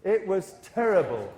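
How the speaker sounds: slow, heavy and dismayed; really sound it. Shown as a demonstration. Teacher showing students how to sound upset, slow and heavy. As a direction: drag out terrible with feeling. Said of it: "if you really want to sound".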